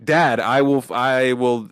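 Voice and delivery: a hint of an English accent in a mock line; slipping into English accent. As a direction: lightly imitate the actor's English accent breaking through. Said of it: "in his, like, English accent".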